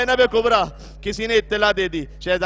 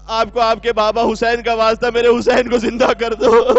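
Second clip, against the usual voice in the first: desperate plea; 7 dB louder than usual. Acted. Mother begs Imam Sajjad.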